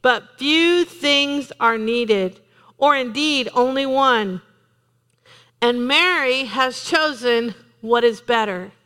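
very slow, weighty words; slow solemn Bible reading; slowed scripture reading. Acted. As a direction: lay each word down slowly.

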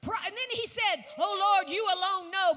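loud, ringing sermon delivery; preaching at full force. Acted.

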